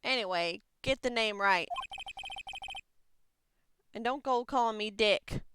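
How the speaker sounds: lightly voiced Southern detective; folksy detective. Detective warning off an intruder at a crime scene, lightly Southern.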